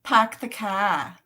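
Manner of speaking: slow, dropped-r Boston accent; slow Boston accent try. Shown as a demonstration. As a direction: drawl it out like a Boston local. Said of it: "Philomena's also in Massachusetts".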